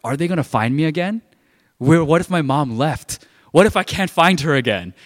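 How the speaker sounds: retold panic. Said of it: "I had a real sense of panic".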